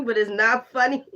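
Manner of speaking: chuckling through the words; laughing despite himself. Real, not acted. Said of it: "this is funny".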